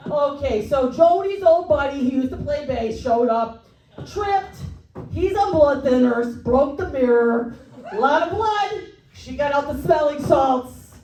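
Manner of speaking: lightly voiced excitable tour manager; Tommy Neptune. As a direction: report the mishap as the flustered manager. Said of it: "it's more of a yelling".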